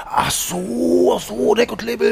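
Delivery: high mock Japanese voice; imitating the interpreter. The late-night helper explains to the bartender in a high voice. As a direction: sing it up high like a helpful interpreter.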